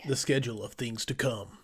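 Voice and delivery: lightly put-on trailer narrator voice; a hint of epic trailer announcer; movie trailer voice. Host showing off his trailer voice, mock trailer narration. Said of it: "That's my, uh, movie trailer voice".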